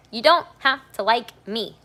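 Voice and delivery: loud, high, emphatic declaration. Real, not acted. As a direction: project it so the people in the back hear. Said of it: "a little louder for the people in the back".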